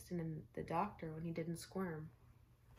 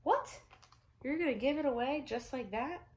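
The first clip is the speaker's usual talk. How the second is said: much higher, louder shocked exclamation; astonished mom; 8 semitones higher, 7 dB louder than usual. Acted. Mom stunned her son gives up the toy, loud and high. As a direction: shriek of disbelief. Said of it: "His mom nearly fell over".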